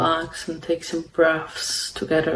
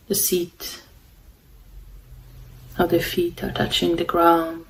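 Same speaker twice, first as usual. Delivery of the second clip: calm, unhurried meditation guidance with long pauses; guided meditation; 3 dB quieter than usual. Real, not acted. Meditation host guiding listeners to follow the breath, calm and unhurried. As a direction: guide them gently, leaving long silences between phrases.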